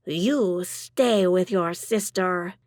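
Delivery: firm and slow, no arguing; insistent. Acted. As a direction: insist she stays put. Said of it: "Margaret insists".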